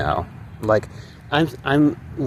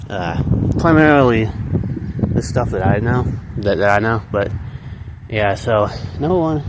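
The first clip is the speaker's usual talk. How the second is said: out of breath. Real, not acted. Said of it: "sorry, I'm out of breath".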